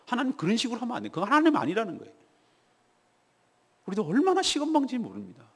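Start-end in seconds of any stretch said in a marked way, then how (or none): 0.1-1.1 arguing with God. Retold or imitated. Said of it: "우리도 하나님에게 따져요".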